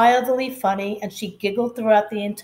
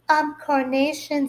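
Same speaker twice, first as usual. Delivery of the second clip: put-on eager girl; 6 semitones higher than usual. Girl claims flower name.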